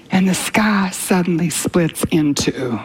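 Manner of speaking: slow whispered wonder; awed whisper. Real, not acted. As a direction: hush it like a vision breaking open. Dramatic Armageddon vision.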